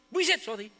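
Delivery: mock grudging curse then sorry; lightly voiced insincere sorry; fake quick sorry. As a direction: toss off a fake apology. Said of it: "Masyado naman peke yun eh".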